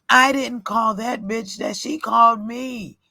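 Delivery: fed up and calling for her husband; exasperated inner rant. Retold or imitated.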